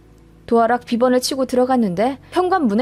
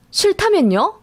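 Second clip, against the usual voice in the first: defiant retort; 6 semitones higher than usual. A narrator's reading. Standing up to her mother-in-law, defiantly. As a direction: throw it back at her, daring.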